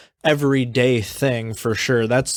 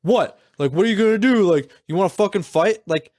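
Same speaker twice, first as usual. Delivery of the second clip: mocking the aggressive driver; 5 semitones higher than usual. Mimicking the woman who got out of her car, mock aggressive taunt. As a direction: taunt like the woman picking a fight. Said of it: "starts being like".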